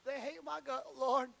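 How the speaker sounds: hammed-up pity-party wail to God, climbing high; David sulks to God in a pity party, mock whining; mock whining lament. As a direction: whine like a sulking preacher ready to quit. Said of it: "pity party and cried and said".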